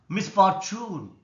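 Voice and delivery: Misfortune said slowly with a firm FOR; slow down and press on FOR in Misfortune; stress on second syllable. Shown as a demonstration. Teacher working through exercise words, slow stress on FOR in Misfortune. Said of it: "second syllable is stressed".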